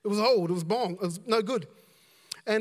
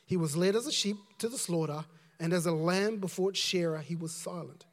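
measured, projected Bible reading; scripture reading. Acted. Preacher reads Acts to the congregation, declaiming lightly. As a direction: read the passage out to a congregation.

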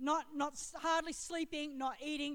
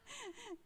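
quiet, high little laugh; small self-amused laugh; soft laugh; 8 semitones higher, 13 dB quieter than usual. Real, not acted. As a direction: laugh softly at yourself. Laughs at her own bossiness.

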